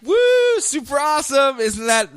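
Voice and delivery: high gleeful villain rant; evil monologue. Retold or imitated. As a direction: gloat like a cackling villain. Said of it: "Evil monologue time".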